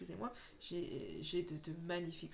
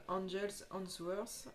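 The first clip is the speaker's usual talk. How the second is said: titre anglais Angels Answers dit lentement avec un accent français; much slower than usual. Real, not acted. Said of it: "Excusez-moi pour mon accent". (anglais prononcé avec un accent français, lentement)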